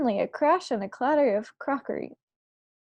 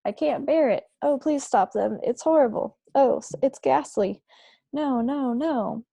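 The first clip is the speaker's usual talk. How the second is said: distressed sleep talker; 3 semitones higher than usual. Acted. Sleeper begs someone to stop them, a mildly raised distressed plea. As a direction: moan the protests like someone trapped in a nightmare. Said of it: "slightly blurred sleep talker's voice".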